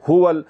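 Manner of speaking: ہول with a short pesh; short vowel. Shown as a demonstration. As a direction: say ہول without stretching the u. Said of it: "کیسے پڑھنا ہے اس کو".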